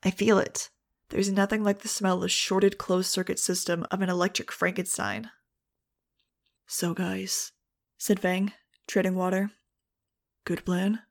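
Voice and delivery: steady audiobook narration voice; story narration. A narrator's reading. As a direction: read the chapter like an audiobook. Audiobook chapter read aloud.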